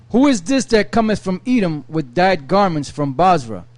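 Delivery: measured Bible reading voice; steady reading of old scripture. Acted. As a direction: read the verses like a lector. Reads Isaiah aloud.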